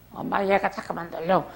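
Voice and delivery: lightly voiced child complaining to mum; a hint of a whining little tattletale; tattling child. Acts out a child tattling to mother.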